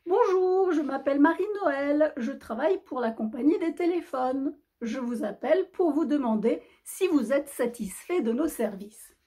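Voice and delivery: lightly voiced caller, high-pitched greeting; phone company caller. Marie Noël calls Noël about phone services, light caller voice. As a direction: start high, settle into a service spiel.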